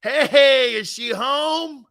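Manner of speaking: high, eerie drawn-out voice; a creepy ghostly imitation; spooky slow mock voice; Poltergeist guy impression. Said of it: "The guy in the hat on Poltergeist".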